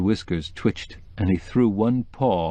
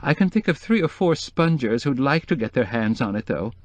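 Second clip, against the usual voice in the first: hardened; 4 semitones higher than usual. Acted. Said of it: "Her tone hardened".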